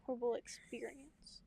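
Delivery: dry sarcasm, fading out; sarcastic. Acted. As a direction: say it sarcastically, not meaning it. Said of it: "I'm being sarcastic".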